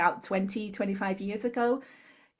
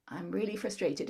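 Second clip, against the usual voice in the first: softer tapping statement; quiet tapping phrase; 6 dB quieter than usual. Shown as a demonstration. A therapist softly voicing the phrase at the chin point. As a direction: say it softly as you tap. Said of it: "Next point is on the chin".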